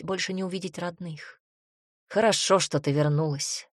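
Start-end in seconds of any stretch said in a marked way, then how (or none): 2.1-3.7 warmer. Acted. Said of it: "Голос отца потеплел".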